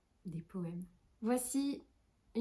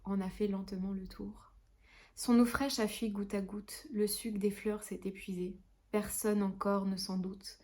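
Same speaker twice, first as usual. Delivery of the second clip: measured, lightly lyrical poem reading; poetry recitation. Acted. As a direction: recite tenderly, letting each couplet settle.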